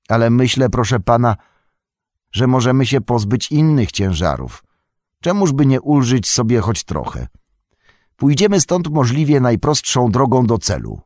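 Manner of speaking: wyżej i głośniej, Sam namawia pana; głos Sama, zachęcający. A narrator's reading. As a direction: przekonuj z zapałem jak wierny sługa. Sam voiced by narrator. (Sam namawia Froda, by porzucić zbędne rzeczy, z zapałem)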